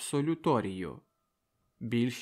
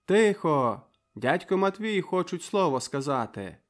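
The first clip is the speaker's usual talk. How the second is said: loud call for silence; shout from crowd; 5 semitones higher, 5 dB louder than usual. Acted. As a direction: shout over the hall. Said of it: "викрикнув".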